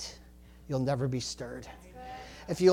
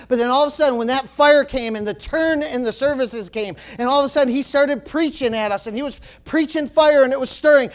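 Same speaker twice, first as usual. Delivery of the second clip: louder, driving preaching voice; fired-up preaching; 6 semitones higher, 7 dB louder than usual. Real, not acted. Preacher telling how the fire came, fired-up. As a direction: build the testimony with fervour.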